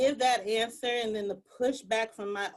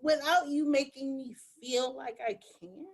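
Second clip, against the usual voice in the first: pleading question; 4 semitones higher than usual. Retold or imitated. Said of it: "And I'm like".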